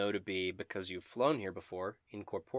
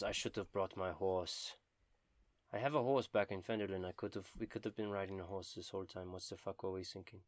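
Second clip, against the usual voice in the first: sighing to himself; 6 dB quieter, faster than usual. Acted. Dobin regrets leaving his horse behind, sighing to himself. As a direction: grumble it softly and quickly, as with a sigh. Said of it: "Dobin kinda sighs to himself".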